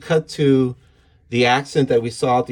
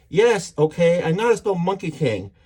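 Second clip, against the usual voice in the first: higher, lightly acted exasperation; mild snapping; 4 semitones higher than usual. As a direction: imitate someone briefly losing patience. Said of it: "she snaps at me".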